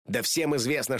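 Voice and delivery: plain reading voice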